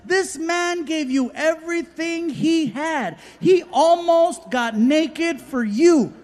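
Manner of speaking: arena announcer shouting the name. Retold or imitated. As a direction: bellow it like a stage announcer. Announcer hyping the crowd.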